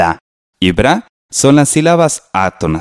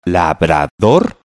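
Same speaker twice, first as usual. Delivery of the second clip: "labrador" drawn out as la, bra, dor; teacher's spelled-out "labrador", syllables apart; 3 semitones lower, much slower than usual. Shown as a demonstration. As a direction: sound out "labrador" in three beats, landing on dor. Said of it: "la última sílaba".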